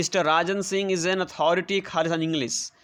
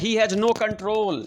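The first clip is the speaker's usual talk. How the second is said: very slow, each word spaced out for the class; slow dictation; 4 semitones higher, much slower than usual. Shown as a demonstration. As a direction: read it out word by word as if dictating to pupils. Teacher dictating example sentence. (बहुत धीरे, शब्द-शब्द बोलकर लिखवाना)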